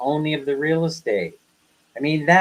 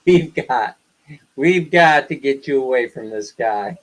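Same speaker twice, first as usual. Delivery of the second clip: laughing while quoting. Retold or imitated.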